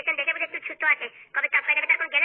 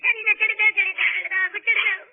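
begging to be let go. Acted.

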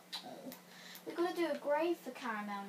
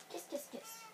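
1 cutesy kisses; 11 semitones higher, 8 dB quieter than usual. Pretend. Kisses at end of message.

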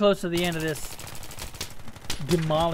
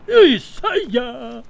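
yelling a name; 7 semitones higher, 11 dB louder than usual. Real, not acted. Yelling at opponent in game.

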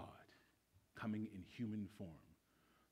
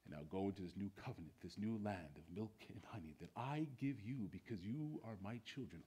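tender reassurance; 3 dB quieter than usual. Retold or imitated. God speaking tenderly to his children, fading to a whisper. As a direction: soothe them like a loving father. Voicing God's loving words.

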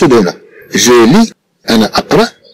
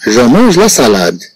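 each word read out slowly and clearly; slow model reading; 2 semitones lower, much slower than usual. Shown as a demonstration. Teacher reads the French sentence slowly to the class. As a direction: read it slowly so pupils can follow. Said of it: "Nous prenons la première phrase".

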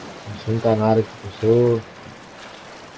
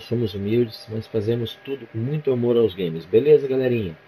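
youtuber outro; 3 semitones higher than usual. Acted. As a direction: sign off the video warmly to fans. Channel outro sign-off.

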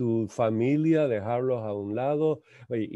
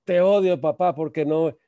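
loud, high-pitched outburst; mock yell of a furious kid; angry child; 5 semitones higher, 7 dB louder than usual. Nine-year-old son lashing out at his father, angry outburst. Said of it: "el niño me dice a los nueve años".

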